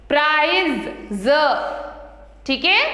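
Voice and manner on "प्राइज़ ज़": "प्राइज" ending in z, then "ज" alone as za; Z sound ending. Shown as a demonstration. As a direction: buzz the z in "प्राइज" and "ज". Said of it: "ऐसे ही ज". ("प्राइज, ज" में ज़ की ध्वनि)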